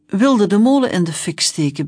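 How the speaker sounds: loud accusing officer. Acted. Young policeman accusing the kids, loudly. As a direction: throw the accusation at them. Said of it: "beschuldigde de jonge rijkswachter".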